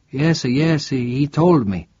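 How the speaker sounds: a frail priest, suddenly alert; startled priest asking a stranger; confused old priest. Acted. Priest falters.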